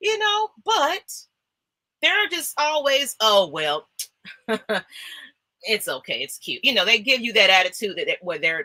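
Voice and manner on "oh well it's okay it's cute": play-acted, sarcastic, dismissive, belittling tone. Imitating a friend who downplays your good news: imitating a sarcastic friend. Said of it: "they're sarcastic".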